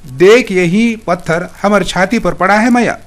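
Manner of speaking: a frightened man calling for help as rocks fall; terrified crying out. Acted. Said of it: "फिर चिल्लाया". (डरकर चीखते हुए, हल्के ऊँचे स्वर में)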